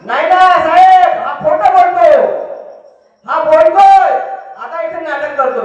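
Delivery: lightly voiced woman insisting to the judge; protesting woman.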